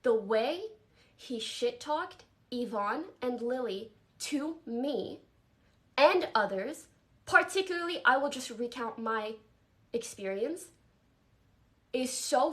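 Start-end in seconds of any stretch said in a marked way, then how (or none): 0.0-6.9 slow, deliberate stress on each phrase; heavy emphasis. Real, not acted. Speaker stressing how he shit-talked her friends, heavily emphatic. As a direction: spell it out slowly, hitting the phrase openings hard. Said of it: "a huge emphasis on this".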